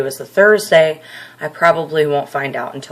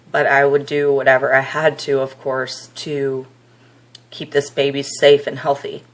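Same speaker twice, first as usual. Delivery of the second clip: short of breath, a little winded. Real, not acted. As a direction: talk while catching your breath, out of breath. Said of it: "I'm out of breath".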